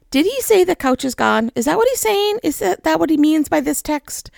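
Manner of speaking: incredulous. Retold or imitated. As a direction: retell a stunned double-check of the news. Retold disbelief at text.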